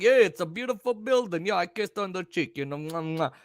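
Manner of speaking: lightly put-on Brooklyn accent; mock Brooklyn storytelling; imitated Brooklyn witness. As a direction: play the chatty Brooklyn guy quoting himself. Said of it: "He was like".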